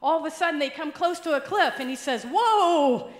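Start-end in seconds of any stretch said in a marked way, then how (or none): 2.2-3.1 loud, high alarmed shout; panicked whoa. Retold or imitated. Preacher at the cliff edge, shouting in panic. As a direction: yell to stop the horse at the cliff.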